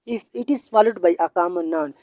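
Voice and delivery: each word of the rule spelt out slowly; slow, deliberate classroom dictation. Shown as a demonstration. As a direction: dictate the rule so students can write it down. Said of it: "teacher repeats rule slowly".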